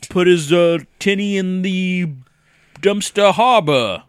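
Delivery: mock British accent, lightly done; half-hearted British accent. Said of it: "Is this British enough for you?".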